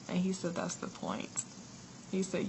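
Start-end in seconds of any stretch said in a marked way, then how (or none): 0.5-1.4 whispered, much lower and softer; whispered punchline. Retold or imitated. Retelling Jesus's gentle answer to her, whispered. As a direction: breathe the line like a secret.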